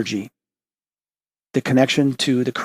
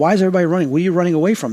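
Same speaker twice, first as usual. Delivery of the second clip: retold alarmed shout, half raised; calling out; 5 semitones higher, much faster than usual. Calling out to fleeing crowd.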